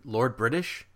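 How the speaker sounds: mock double take, pitch jumping up; surprised reaction. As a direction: retell a moment of disbelief. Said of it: "you're like".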